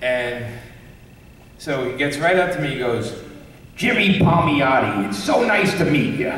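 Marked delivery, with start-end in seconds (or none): 3.8-6.3 put-on light, friendly old-man voice, lightly done; a gentle nod to Stan Lee's cheerful greeting; Stan Lee impression. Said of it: "as Stan Lee".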